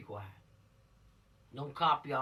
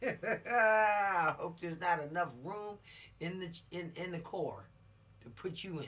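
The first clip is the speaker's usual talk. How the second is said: slow, tearful mock sob; mock crying; 3 semitones higher, 4 dB louder than usual. Teacher voicing a tearful character about the car, mock crying. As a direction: pretend to weep the threat.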